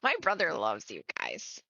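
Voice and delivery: high-pitched, gushing fan voice. Acted. Fan tells the Warbler Brothers of her brother, gushing. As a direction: gush like a starstruck admirer.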